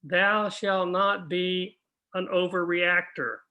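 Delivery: drawn-out biblical pronouncement; slow, weighty "Thou shalt not be an overreactor"; slow solemn commandment. Shown as a demonstration. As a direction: intone it slowly like scripture. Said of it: "The second thing he says is".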